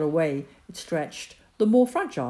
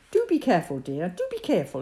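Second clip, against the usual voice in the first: hysterical; faster than usual. Acted. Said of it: "His mother's voice sounded hysterical".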